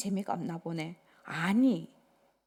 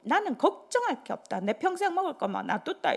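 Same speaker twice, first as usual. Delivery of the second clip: boasting father; 6 semitones higher than usual. Retold or imitated. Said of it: "큰 소리 치면서".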